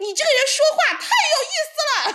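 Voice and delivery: high-pitched, acted-out shout. Retelling how he shouted at a man's back as he left: retelling a shout. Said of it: "我就冲着他的背影喊".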